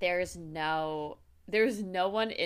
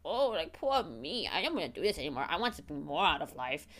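hammed-up moaning; mock whining. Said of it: "bitching and moaning".

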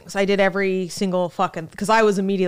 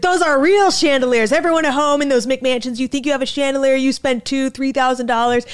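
loud, high-pitched ranting guide; Tim Dillon; 5 semitones higher, 5 dB louder than usual. Retold or imitated. Comic as tour guide berating passengers about mansions, loud rant. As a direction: imitate a guide screaming about interior design. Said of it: "and just would scream about".

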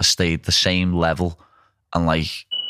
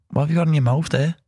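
higher, fast scolding question; mock coach scolding; 8 semitones higher, faster than usual. A nutritionist catching a Jolly Rancher, scolding. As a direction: snap at him like a coach.

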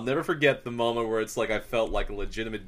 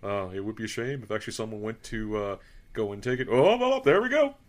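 lightly voiced scheming goose; sly, teasing goose taunting. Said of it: "I just kind of pictured my goose voice".

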